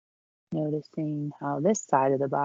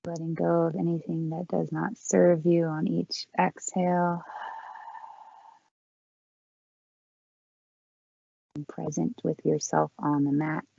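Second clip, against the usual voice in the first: calm, unhurried yoga-teacher voice with long pauses; guided breathing meditation. Real, not acted. Yoga teacher leading the class in four count breathing, calm guided meditation. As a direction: guide them gently through each breath, leaving space between phrases.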